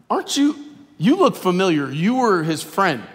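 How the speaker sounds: high, loud accusation of an onlooker; accusing shout. Retold or imitated. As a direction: call him out loudly, pointing the finger. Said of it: "so he's like".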